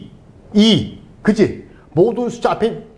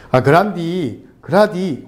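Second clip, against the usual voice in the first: lightly put-on Jeolla accent; a touch of Jeolla dialect; slower than usual. Shown as a demonstration. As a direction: say it like someone from Jeolla. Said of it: "전라도 말이잖아요".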